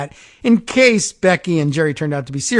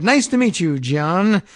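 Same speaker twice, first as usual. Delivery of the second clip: put-on Southern accent; 2 semitones higher than usual. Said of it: "with his thick Southern accent".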